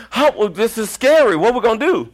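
high, loud hammed-up panic; mock panic. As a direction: act out freaking out in a high voice. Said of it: "I freaked out".

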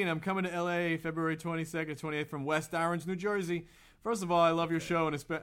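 lightly put-on New Jersey accent. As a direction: read the letter in a mild Jersey accent. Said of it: "I had to do the accent".

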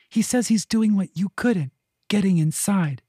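a lightly high, pushy cat; cat pestering her person, high and eager. A narrator's reading. Nax replies.

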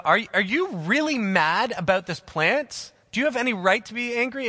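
God gently confronting a sulking prophet; God questioning Jonah. Retold or imitated. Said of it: "He says to Jonah".

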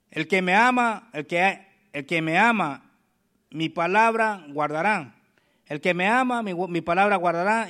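slow, deliberate preacher's reading; unhurried scripture read to the church. Acted. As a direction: read each phrase as holy words. Reads Jesus' answer.

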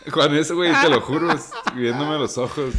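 loud, high outraged telling; indignant shouting. Real, not acted. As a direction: vent the outrage at full volume. Outraged retelling of shop clash. (indignado a gritos)

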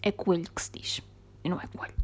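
whispered secret correction. Shown as a demonstration. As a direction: whisper both coelhos, conspiratorially. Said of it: "levantou uma questão".

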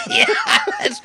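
laughing shout. Real, not acted. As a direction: crack up shouting yes. Bursting out laughing.

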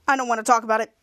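low, sulky refusal; pouty. Retold or imitated. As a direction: sulk like a moody teen, voice dropped. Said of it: "Henry being all pouty".

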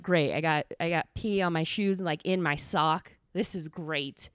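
low, unimpressed mock delight; sarcastic self-quote. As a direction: grumble it sarcastically, as if quoting your own misery. Sarcastic quote of herself, peed shoes.

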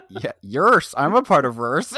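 a loose Irish lilt; Irish accent. Acted. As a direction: put on a silly Irish accent. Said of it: "an Irish accent".

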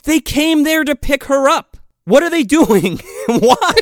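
high, incredulous rant breaking into laughter; exasperated disbelief. Real, not acted. Exasperated rant about the plot.

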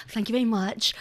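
put-on polished non-Scottish voice; TikTok voice. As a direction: hide the Scottish accent, sound polished. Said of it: "I had a TikTok voice".

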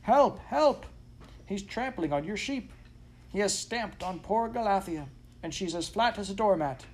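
high, yelping dog's plea; frantic alarm. A narrator's reading. Dog urging master to act, frantic alarm. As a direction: wail the bad news at a high pitch, crying out for help.

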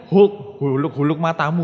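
mock-rude Surabaya scolding, laughing; rough Surabaya style. Shown as a demonstration. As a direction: scold the mistake like a cheeky East Javan teacher. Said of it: "dengan cara orang Surabaya".

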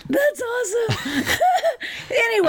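high, shrieking laugh; real laughter breaking through the words. Real, not acted. Cracking up at the joke.

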